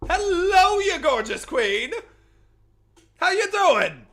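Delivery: loud, high, gushing hello; excited greeting. Real, not acted. Streamer welcomes a friend, loud excited greeting. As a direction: greet them like a long-lost friend.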